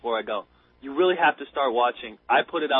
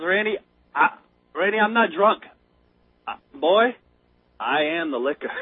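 lightly imitated drunk, mock-solemn and halting; deadpan; 4 dB louder than usual. Drunk answering his worried buddy, lightly imitated deadpan. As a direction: deliver the punchline deadpan, with pauses. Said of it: "He does this dead take".

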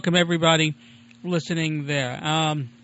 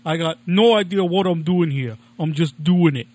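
loud, helpless quoting of himself; hamming up being lost; mock clueless plea; 6 dB louder than usual. To the tech helper, a loud helpless plea. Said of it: "and I said".

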